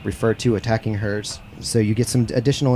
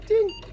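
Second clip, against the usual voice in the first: very high voiced ding; imitated beep. Game master ends the voicemail, imitated high chime. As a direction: mimic a machine chime in a high pitch.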